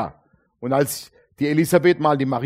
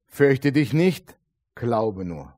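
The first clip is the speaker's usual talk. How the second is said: gentle solemn reassurance; 4 semitones lower, much slower than usual. Acted. Jesus quoted, slow solemn. (langsam und sanft, beruhigend)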